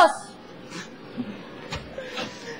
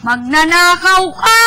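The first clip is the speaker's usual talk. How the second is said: angry accusation; 3 semitones higher, 6 dB louder, slower than usual. Acted. Accusing friend of theft.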